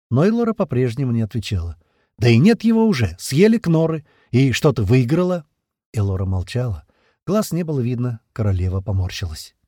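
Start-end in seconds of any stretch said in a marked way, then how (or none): 2.2-5.4 louder, mocking queen; taunting queen. A narrator's reading. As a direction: rub the loss in.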